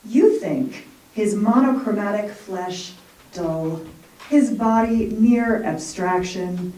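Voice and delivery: measured recital, lifting lines then settling; poem reading. Acted. Poet reading her Picasso poem to the audience, measured recital. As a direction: read the poem with slow weight on the images. Reads own poem aloud.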